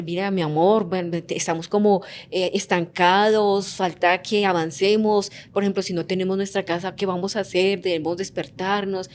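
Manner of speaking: peacemaking wife's calm tone; gentle, peaceful tone. Shown as a demonstration. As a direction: coax him kindly, like a loving wife. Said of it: "Con un tono apacible, pacificador".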